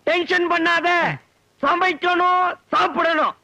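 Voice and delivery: high, exasperated outburst; exasperated insistence. Acted. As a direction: repeat it at the end of your patience. Boss exasperated at misunderstanding.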